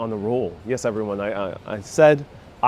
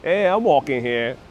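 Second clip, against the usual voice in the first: Dustin Hoffman. Acted. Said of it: "that's my Dustin Hoffman".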